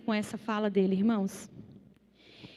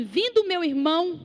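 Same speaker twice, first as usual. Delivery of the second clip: friendly welcome, a touch raised; kindly welcoming brother; 4 semitones higher than usual. Shown as a demonstration. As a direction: greet him like a dear brother. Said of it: "ele não fala assim".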